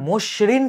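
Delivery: "মসৃণ" as mosh-rin; sh sound. Shown as a demonstration. Teacher giving a counterexample, "মসৃণ" as mosh-rin. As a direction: say "মসৃণ" with a clear sh. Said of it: "টাইপের উচ্চারণ হইতো".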